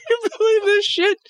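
very high, through helpless laughter; laughing in disbelief. Real, not acted. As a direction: squeak it out while cracking up. Cracking up after the clip.

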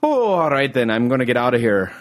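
light, shaky-grasp Irish accent; attempted Irish accent. Shown as a demonstration. Showing how he left the bar, amateur Irish accent. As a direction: have a go at an Irish farewell. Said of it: "I can't really do an Irish accent".

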